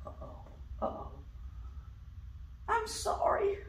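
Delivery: nervous whispered apology; whispering. Acted. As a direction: whisper it sheepishly.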